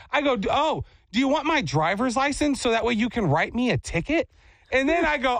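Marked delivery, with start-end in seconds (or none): 0.4-4.3 sarcastic offer. Retold or imitated. Sarcastic retold offer to fake officer.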